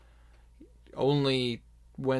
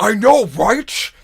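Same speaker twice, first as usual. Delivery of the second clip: high, loud, slow orc holler; loud orc agreement; 8 semitones higher, 14 dB louder, slower than usual. Acted. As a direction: bellow your agreement like a rowdy orc. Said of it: "another orc just go like".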